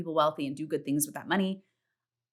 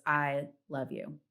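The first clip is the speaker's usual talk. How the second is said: tender self-affirmation; 3 semitones lower, 4 dB quieter, much slower than usual. Retold or imitated. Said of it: "looks in the mirror and goes".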